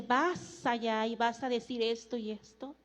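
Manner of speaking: low, soft instruction; quiet divine command. Acted. The Lord telling the preacher where to go, low and quiet. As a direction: hand down the order in a hushed, low voice. God's command, voiced softly.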